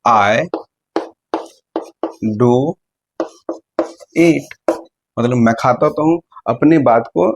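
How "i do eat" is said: "do" drawn out and stressed, pause around each word. Shown as a demonstration. Teacher demonstrating emphatic do slowly. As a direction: land hard on "do". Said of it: "कैसे बोलेंगे हम लोग".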